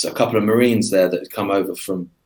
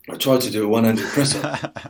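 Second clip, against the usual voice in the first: dazed friend. Retold or imitated. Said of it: "he just looked at me and went".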